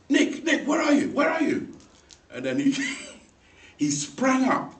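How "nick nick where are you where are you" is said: high, loud worried call. Retold or imitated. Big brother searching for his brother after the fall, shouting. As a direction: shout for him across the yard. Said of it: "I goes".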